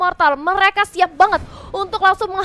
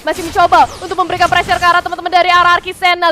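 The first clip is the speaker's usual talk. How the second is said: excited play-by-play; 3 semitones higher, 6 dB louder than usual. Acted. Teamfight call.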